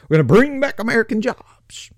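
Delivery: breathy mock whisper of a slogan. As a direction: whisper the promise like a sneering aside. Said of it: "Trump used to be all about".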